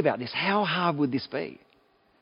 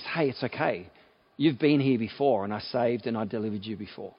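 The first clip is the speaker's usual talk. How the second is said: reassuring God; 3 semitones lower than usual. Retold or imitated. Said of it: "not trying to reprimand them".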